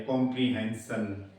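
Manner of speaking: कॉम्प्रीहेंशन ending in a clear "san"; low-pitched कॉम्प्रीहेंशन with s in the ending. Shown as a demonstration. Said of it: "इसमें सन बोलता है".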